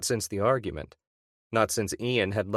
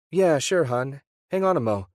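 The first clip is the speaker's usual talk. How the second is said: high, louder, gushing surprise; delighted wife; 5 semitones higher, 5 dB louder than usual. Acted. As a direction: she is thrilled to hear from him. Wife voiced on phone.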